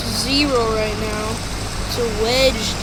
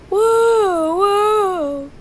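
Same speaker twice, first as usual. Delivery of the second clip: excited; 8 semitones higher, 4 dB louder than usual. Real, not acted. Sudden sight in game.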